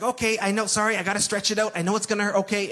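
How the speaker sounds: a hint of a kind technician easing the pain; gentle x-ray guy. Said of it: "was he the gentlest guy ever".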